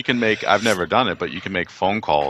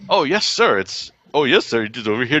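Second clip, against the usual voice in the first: lightly imitated Indian English accent, pitched high; a hotel clerk's eager Indian-accented reply, a bit higher; 5 semitones higher than usual. Hotel staff answering a guest's directions, in a mock Indian accent. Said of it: "asked in an Indian accent".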